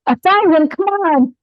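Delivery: scoffing teacher. Retold or imitated. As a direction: mentor unimpressed by a small count. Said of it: "He'd be like".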